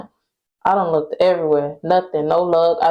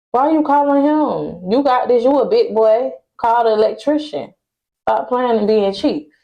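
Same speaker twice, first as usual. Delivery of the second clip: higher-pitched, exasperated telling-off; exasperated scolding; 4 semitones higher than usual. Retold or imitated. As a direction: scold him in a raised pitch, retelling it. Acting out her exasperated challenge to landlord.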